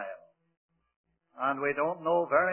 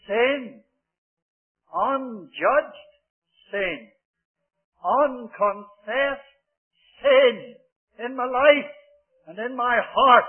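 rising preaching; 4 semitones higher, 4 dB louder, slower than usual. Real, not acted. Preacher building list of sins.

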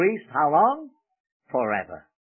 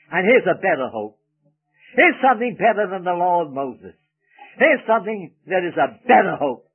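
BETTER leaned on in each phrase; stress on BETTER; 3 dB louder than usual. Shown as a demonstration. Preacher pointing out the book's key word, stressing BETTER. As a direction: underscore "better" with the voice each time. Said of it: "Underscore the word better".

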